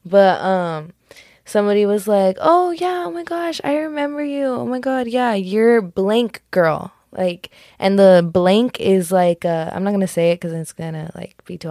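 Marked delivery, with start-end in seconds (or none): 2.4-6.9 mock-gushy greeting, slowing at the end; gushing recognition. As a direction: imitate an acquaintance suddenly placing a face. Retells someone recognizing her.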